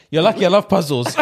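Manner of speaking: lightly voiced judge, high and smug; a hint of a smug judge. Retelling the judge taking up the puzzle, mildly smug.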